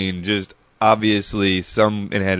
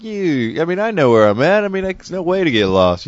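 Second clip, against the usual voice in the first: mock know-it-all; 8 semitones higher than usual. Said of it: "And I was like".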